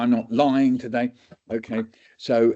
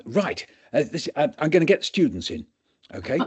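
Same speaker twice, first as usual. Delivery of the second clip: higher and brisk, fast; eager doctor; 5 semitones higher than usual. Retold or imitated. Doctor summons students, a hint of eager haste. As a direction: rush to fetch the students.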